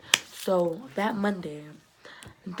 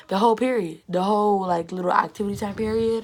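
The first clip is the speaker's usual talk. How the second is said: emphatic complaint; 2 semitones higher, 6 dB louder than usual. Real, not acted.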